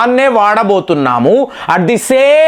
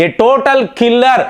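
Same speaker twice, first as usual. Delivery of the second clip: very slow, stretched-out imitation of Trump; lightly imitated Trump, words stretched slow; mock Trump praise; much slower than usual. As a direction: drag out the flattery, lightly voiced Trump. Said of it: "Trump భారతీయులకు శుభాకాంక్షలు తెలుపుతున్నాడు".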